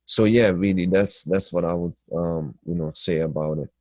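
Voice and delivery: stuffy nose from sinuses; nasal, blocked-nose voice. Real, not acted. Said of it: "talking through my nose".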